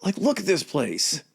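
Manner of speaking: high, excited gushing about the view. Retold or imitated. King marveling at Greek seaside, high excited gushing. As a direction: marvel at the water like a tourist. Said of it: "he's like".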